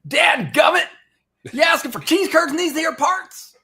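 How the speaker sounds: loud, high, hammed-up Arkansas yokel; Arkansas hick accent. Local challenging a cheese curd buyer, shouted Arkansas accent. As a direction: holler it like a cartoon Arkansas local. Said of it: "Are you in Arkansas".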